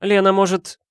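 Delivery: high, bright-pitched coaxing friend; Valentina voice. A narrator's reading.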